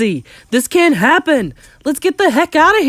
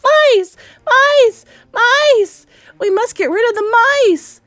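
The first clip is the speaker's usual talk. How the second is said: very high, loud shrieking; panicked yelling; 7 dB louder, slower than usual. Acted. Crowd yelling about mice, panicked. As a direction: yell the alarm at full pitch. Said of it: "everyone was yelling".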